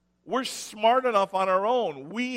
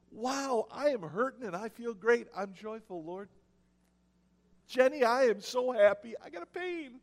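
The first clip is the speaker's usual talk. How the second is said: sarcastic mock joy; 3 semitones higher, 4 dB quieter than usual. Pastor retells pain with mock joy.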